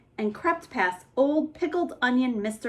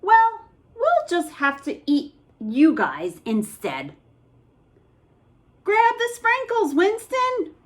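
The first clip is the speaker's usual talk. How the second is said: high, louder gleeful threat; hungry monster; 9 semitones higher, 3 dB louder than usual. Acted. Monster deciding to eat the boys, gleeful. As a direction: menace them playfully.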